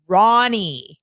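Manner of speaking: lightly voiced chummy dad, "Ronnie" falling; dad naming dog. Dad telling her the dog's name, cheerful. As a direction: hand over the name "Ronnie" like good news.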